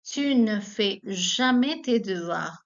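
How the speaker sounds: slow, clear French example; teacher modelling a negative sentence; slow model. Shown as a demonstration. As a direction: read slowly for learners. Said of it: "For example".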